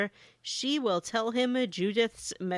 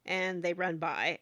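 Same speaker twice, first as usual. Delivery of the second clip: ordinary talk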